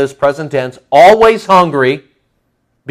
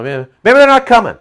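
lightly acted excuse-making, higher pitched; rationalizing; 6 semitones higher than usual. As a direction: talk yourself into it. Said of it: "See how it goes for the rationalism".

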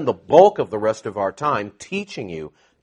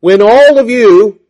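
"all" punched loud and high, slowed down; slow, loud "when all of you"; stress on all; 9 semitones higher, 13 dB louder, slower than usual. Shown as a demonstration. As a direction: lean hard on "all". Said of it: "I say".

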